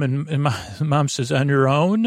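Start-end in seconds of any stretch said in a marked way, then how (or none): 1.3-2.1 retold pointed question. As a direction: pitch sweeping up at the end. Mother questions daughter, retold.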